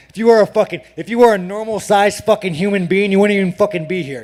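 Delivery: loud heated trash talk; angry rant. Real, not acted. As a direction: rip into him, fired up.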